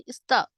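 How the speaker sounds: "स्त" said as one cluster, not as "सता"; teacher sounding out "स्त" so children say it along; pronunciation demo. Shown as a demonstration. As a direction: model "स्त" clearly for the class to repeat. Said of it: "बोलिए मेरे साथ".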